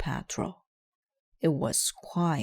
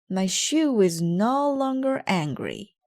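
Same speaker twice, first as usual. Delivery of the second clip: pleased; 6 semitones higher, 5 dB louder than usual. Acted. Detective pleased.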